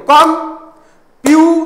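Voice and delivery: କମ୍ପ୍ୟୁଟର stretched out slowly, rising at the end; slow syllable demo. Shown as a demonstration. Teacher clapping out syllables, slow and drawn out. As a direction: clap out କମ୍ପ୍ୟୁଟର slowly, part by part. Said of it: "ତାଳି ମାରିକି କରିପାରିବ".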